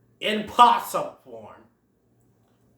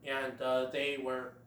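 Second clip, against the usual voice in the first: lower, softer gruff aside; Diego voice; 6 semitones lower, 6 dB quieter than usual. Retold or imitated. Diego muttering to Sid after falling, lower voice. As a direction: grumble it to save face. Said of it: "Diego says".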